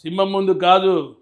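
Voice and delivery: slow, measured hero warning; lightly voiced Balayya film punch line; Balayya dialogue. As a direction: lay down the line slowly like Balayya. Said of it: "ఒక మంచి dialogue".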